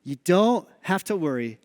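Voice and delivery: put-on slow, low, gentle promise to a scared child; reassuring dad. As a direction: soothe him into it slowly. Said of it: "I said to my child".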